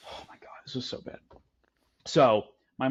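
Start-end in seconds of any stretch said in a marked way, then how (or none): 0.1-1.2 breathy whisper, almost no voice; whispered aside. Real, not acted. Telling a friend about the bad dinner, whispered. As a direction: drop to a hushed whisper as if sharing a secret.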